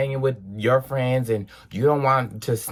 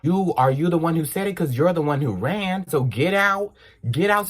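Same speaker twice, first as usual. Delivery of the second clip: higher, fast confronting voice; angry accusation; 7 semitones higher than usual. Retold or imitated. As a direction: accuse the boy at the window. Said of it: "I'm like".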